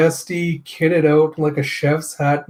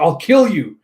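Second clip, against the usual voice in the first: angry threat; 3 semitones higher, 5 dB louder than usual. Acted. Nola lunging with pipe.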